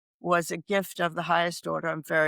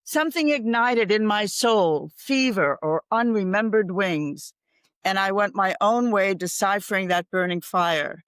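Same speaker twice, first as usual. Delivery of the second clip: poem recital. Acted. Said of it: "There's a poem by Pablo Neruda. He says".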